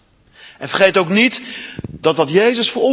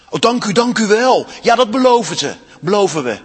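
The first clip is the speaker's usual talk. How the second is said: higher, louder, eager gratitude; eager thanks; 4 semitones higher, 4 dB louder than usual. Acted. The girls thank Aslan, eager and relieved.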